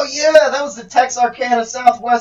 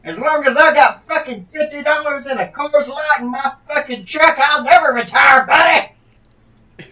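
angry shout; 2 semitones higher than usual. Acted. Wrestler bursts in angrily.

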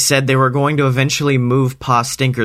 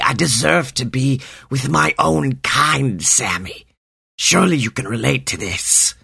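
a touch of mock crying in the snake voice; lightly voiced snake, mournful and pleading; sad snake. Snake pleading with Sammy to be free, mildly tearful.

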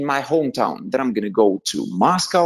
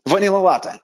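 ordering a drink; 6 semitones higher than usual. Retold or imitated. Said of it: "and then I'm like".

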